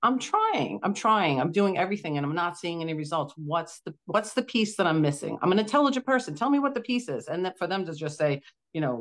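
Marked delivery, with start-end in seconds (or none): 0.0-7.3 pleading with doctors, fed up; frustrated pleading. Retold or imitated. Retelling pleas to the doctors, exasperated.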